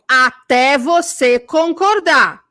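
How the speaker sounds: loud, slow, hammered syllables; emphatic insistence. Acted. Mimicking the bossy friend who insists until you agree, loud and emphatic. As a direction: pound out each word, drawn out.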